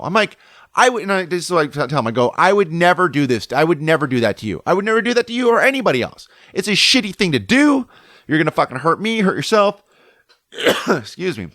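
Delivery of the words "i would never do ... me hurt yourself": re-enacted scolding, pitch climbing as it goes; mad. Surfer telling off the other surfer, mad. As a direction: lecture them indignantly, retelling the argument. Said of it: "Like, I'm mad".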